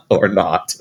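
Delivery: chuckling through it; laughing. Real, not acted. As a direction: still laughing at the pun. Laughing at the knot pun.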